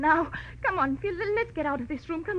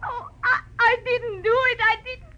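higher, louder, desperate denial; blurting it out in fear; frightened protest; 7 semitones higher, 5 dB louder than usual. Acted. Charlene caught at the body, pleading in fear.

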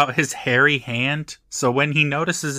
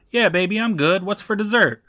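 higher-pitched, put-on casual sweet talk; acted smooth reassurance; 7 semitones higher than usual. A narrator's reading. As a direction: play it smooth to cover up trouble. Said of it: "Larry just tells her".

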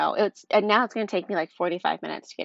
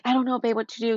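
frustrated mock yell, higher and louder; retold yelling; 4 semitones higher, 3 dB louder, faster than usual. Husband snapping at wife under work stress, retold yelling. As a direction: imitate a husband yelling, toned down. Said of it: "He's yelling at me".

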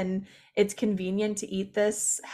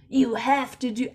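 bro voice; 3 semitones higher than usual. Retold or imitated. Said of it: "my bro voice".

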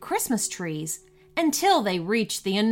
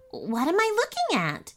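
christmas elf; 9 semitones higher than usual. Acted. Elf puzzled by the snow.

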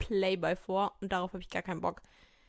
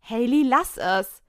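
firm warning; 7 dB louder, slower than usual. Acted. Friend warns Hailey.

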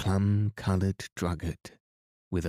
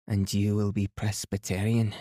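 put-on a light Highland Scottish lilt for the old woman; gently voiced Highland Scotswoman asking; Highland accent; 2 semitones higher than usual. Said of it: "full of delightful Highland accent".

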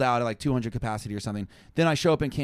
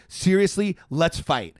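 fired-up challenge; 5 semitones higher, 5 dB louder, slower than usual. Retold or imitated. Challenging the guy to fight.

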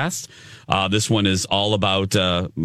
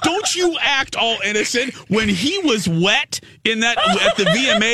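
teasing high voice; 13 semitones higher than usual. Pretend. Teasing accusation at co-host.

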